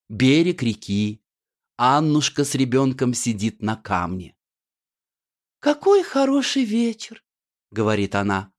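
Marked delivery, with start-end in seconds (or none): 5.6-7.2 put-on high, sweet village girl voice; high theatrical heroine voice; Annushka's voice. Annushka's voice in the play.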